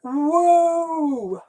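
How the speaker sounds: high, long startled whoa; a sudden drawn-out cry of surprise. Real, not acted. Sees something on the road, high startled whoa.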